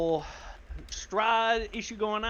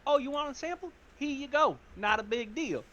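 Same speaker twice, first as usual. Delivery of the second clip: breezy agreement; 8 semitones higher, 4 dB quieter than usual. Acted. Character readily hands over blood.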